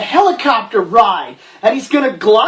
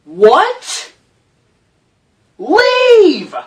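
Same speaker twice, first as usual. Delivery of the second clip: exasperated shout; 7 semitones higher, slower than usual. Real, not acted. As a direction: yell at her to just leave. Yelling disbelief at the heroine.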